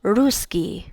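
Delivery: Ruski with the S held long before the K; lingering S sound. Shown as a demonstration. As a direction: hang on the hiss in the middle of Ruski. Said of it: "hang out on that S sound".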